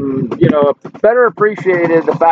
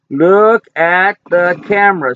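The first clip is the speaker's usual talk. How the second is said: stretched-out, gentle pet-talk request; slow coaxing; slower than usual. Real, not acted. Owner coaxing his dog to face the camera, slow and gentle. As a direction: draw it out to coax the dog.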